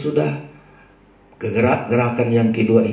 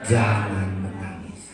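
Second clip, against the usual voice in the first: low, slow and soft; tender comforting words; 6 semitones lower, 4 dB quieter, slower than usual. Acted. Tuhan speaking to the weeping widow, tender comfort. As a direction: console gently, letting the voice drop. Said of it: "Lalu ia berkata kepadanya".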